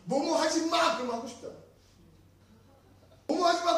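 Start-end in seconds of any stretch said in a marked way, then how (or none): 0.0-1.0 loud, high-pitched mock command; raised-voice "don't"; sharp prohibition. Acting out a generic prohibition. 3.3-3.8 loud, high-pitched mock command; raised-voice "don't"; sharp prohibition. Repeats the acted prohibition.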